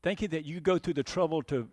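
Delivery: measured, solemn public prayer; closing prayer. Real, not acted. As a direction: lead the congregation in prayer, pausing between thanks.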